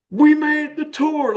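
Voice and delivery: high, slow, shouted joy; retold excited scream. Roommate bursting in, screaming the good news. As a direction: yell it like the news just hit. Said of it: "he screams".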